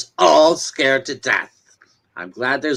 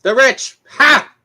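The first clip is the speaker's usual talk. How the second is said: scornful laugh; 7 semitones higher, 5 dB louder, slower than usual. Acted. Scornful echo of "the rich.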